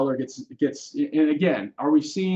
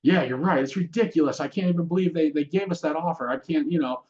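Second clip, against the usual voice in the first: raised, worked-up agreement; mock the agent who takes the client's side; a hint of a flustered realtor; emotional realtor; 4 semitones higher than usual. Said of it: "an unskilled realtor gets emotional with them".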